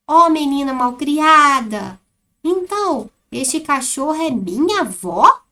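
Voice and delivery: put-on an offended adult telling a rude girl off; scolding. Shown as a demonstration. The offended adult scolding the girl, loud and indignant. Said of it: "como está a entonação do texto".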